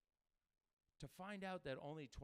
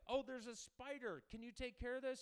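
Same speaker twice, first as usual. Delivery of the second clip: put-on higher, lightly girly plea; mock girlfriend voice; 10 semitones higher, 4 dB louder than usual. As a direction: ask sweetly like a helpless girlfriend. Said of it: "a chick be like".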